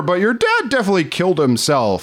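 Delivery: lightly put-on posh butler; mock solemn butler confession. Mock Bernard butler reveal.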